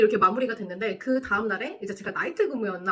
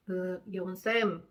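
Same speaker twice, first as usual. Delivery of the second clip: awkward call; 2 semitones lower, much slower than usual. Retold or imitated. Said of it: "이래가지고".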